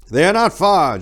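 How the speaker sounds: high and loud alarm; monk warning the others; urgent exclamation. A narrator's reading. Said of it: "Jodithus exclaimed".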